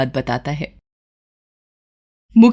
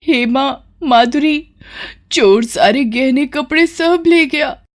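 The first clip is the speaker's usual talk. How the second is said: higher, slow, a touch of lament; distressed wail; 6 semitones higher, slower than usual. Acted. Bride tells sister the thief took everything, mildly wailing. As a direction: stretch the names in distress. Bride wails over stolen jewels.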